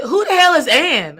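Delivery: loud, high demand; shocked wife yelling the question; indignant outburst. Retold or imitated. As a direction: burst out with jealous disbelief. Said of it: "And I said".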